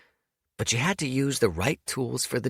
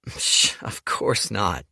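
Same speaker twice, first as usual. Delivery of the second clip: scoffing; slower than usual. Acted. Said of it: "Dorian scoffed".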